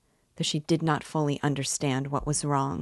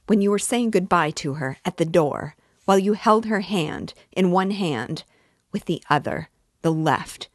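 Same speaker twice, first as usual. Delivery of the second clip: louder, insistent witness; heated testimony; 3 semitones higher, 3 dB louder than usual. Acted. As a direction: insist on what you saw, heated. Lebeziatnikov keeps testifying.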